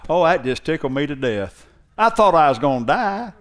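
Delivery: lightly mock a slangy talker; a hint of someone joking about dying. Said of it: "Jesus was not one to go around saying".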